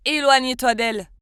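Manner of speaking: loud call across the cafeteria to back off; shouted command. Acted. Boy shouts at the bully from across the cafeteria, loud. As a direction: yell it from across the room to stop her. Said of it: "criait depuis la cafétéria".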